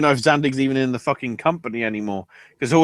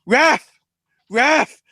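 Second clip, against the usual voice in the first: high-pitched fake injured wrestler; hammed-up cry of outrage; mock victim wail; 9 semitones higher, slower than usual. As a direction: whine to the ref like a faker. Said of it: "falls to the floor and goes".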